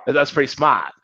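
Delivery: put-on playful Massachusetts accent on "smart"; Boston accent. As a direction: drop the R in "smart", Boston style. Film's Massachusetts accents, r dropped.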